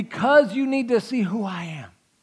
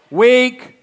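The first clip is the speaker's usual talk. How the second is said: higher, louder single word; mock loud; 6 semitones higher, 9 dB louder than usual. Shown as a demonstration. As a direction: throw it out loudly as a jab. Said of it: "that's weak".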